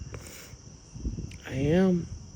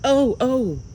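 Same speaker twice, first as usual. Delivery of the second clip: high and louder, sudden alarm; startled; 7 semitones higher, 4 dB louder than usual. Real, not acted. Filming the sky, startled by a sudden flash. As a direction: jolt at something unexpected.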